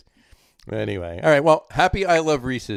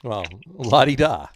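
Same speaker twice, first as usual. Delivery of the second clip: mock impressed; 2 semitones higher, slower than usual. Teasing over candy count.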